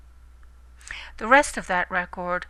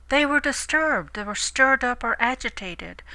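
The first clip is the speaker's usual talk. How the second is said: dramatic emphasis; 4 semitones higher, 4 dB louder than usual. Acted. Preacher dramatizes disciples' fright.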